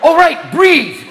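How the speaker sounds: dazed stoner talking in slow, separate bursts; mock catatonic smoker fighting to cope; stoned panic. Stoner after a hit forgets to breathe, dazed panic.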